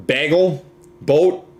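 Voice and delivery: slow, drawn-out Minnesota vowels; Minnesota accent. Shown as a demonstration. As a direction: try single words in a Minnesota accent. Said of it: "Minnesotans draw out their vowels a little bit".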